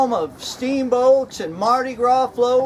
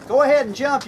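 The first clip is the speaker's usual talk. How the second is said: retold yell, a touch higher and louder; hammed-up shout to a jumper; mock yell; 5 semitones higher, 4 dB louder, faster than usual. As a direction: call it up to the bridge in a half-hearted yell. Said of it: "So I yelled up at him".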